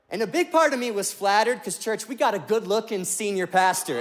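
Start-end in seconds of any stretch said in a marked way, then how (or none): none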